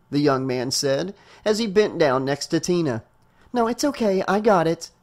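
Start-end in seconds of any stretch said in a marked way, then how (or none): 3.5-4.9 mildly curt, pitched up at the start; a touch of curtness. A narrator's reading. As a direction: brush off the offer of help. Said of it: "Tina said curtly".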